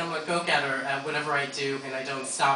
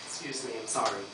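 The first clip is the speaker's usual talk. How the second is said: emotional; 6 dB quieter than usual. Real, not acted. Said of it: "Take a deep breath".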